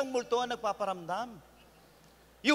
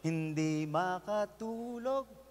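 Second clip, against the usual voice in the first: softer, slow mock lament; mock sleepless sigh; 2 semitones lower, 6 dB quieter, much slower than usual. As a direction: play the sleepless lover softly. Sleepless lover, soft slow. (mahinang kunwaring daing)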